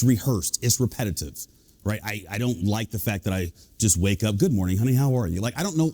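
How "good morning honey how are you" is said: low put-on morning greeting; hammed-up radio-style hello; Mister Rogers on steroids. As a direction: drop into a deeper presenter voice. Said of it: "sound like Mister Rogers on steroids".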